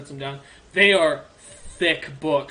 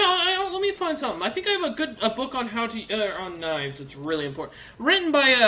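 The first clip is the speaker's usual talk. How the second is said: lightly voiced helpful orc librarian, eager; a friendly old bookkeeper orc, perking up; 4 semitones higher than usual.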